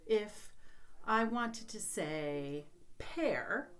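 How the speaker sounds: slow demo. Shown as a demonstration. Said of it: "for instance".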